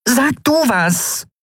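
very high, slow, drawn-out appeal; high-pitched, insistent plea; pleading. A narrator's reading. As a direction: beg for backup in a tiny high voice. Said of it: "flehten ihn an".

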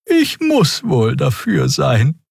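etwas tiefer, langsam, gelassen; leicht schmunzelnd zustimmen; Xea-Stimme. Acted. Xea antwortet lächelnd. (ruhig und tief)

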